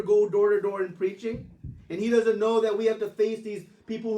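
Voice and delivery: hammed-up defensive banter; exasperated retort. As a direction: throw the blame back with mock outrage. Nityananda answers back in banter.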